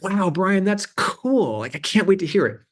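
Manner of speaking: high, mock-enthusiastic colleague voice; imitating Michael Rubenstein. To Brian, his colleague humouring a pitch, mock-delighted and high. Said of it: "And he'd be like".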